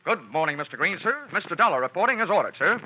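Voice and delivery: teasing salute to the boss; mock military report. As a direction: snap to attention like a cheeky private reporting to the general. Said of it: "what's this saluting and heel clicking about".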